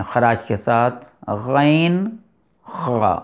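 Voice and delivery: غین and خا rasped from the upper throat; throat letter demo. Shown as a demonstration. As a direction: show غین and خا slowly. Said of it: "غین اور خا ادا ہوتے ہیں". (غین اور خا کی مخرج سے ادائیگی)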